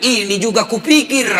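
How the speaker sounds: imitated high outburst; exasperated retort. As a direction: act out a flustered imam snapping back. Imam retorts to the shouting student.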